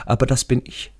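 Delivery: hohe, ungläubig fragende Stimme; ängstlicher toter Schulfreund. Acted. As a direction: als toter Freund fassungslos nachfragen, deutlich höher. Radi bewildered at his skeleton. (hoch, befremdet und unsicher)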